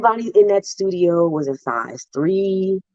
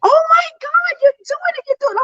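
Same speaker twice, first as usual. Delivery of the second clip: high-pitched tearful cheering; excited cheering. Retold or imitated. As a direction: cheer her on, overjoyed. Girls cheering her on pole.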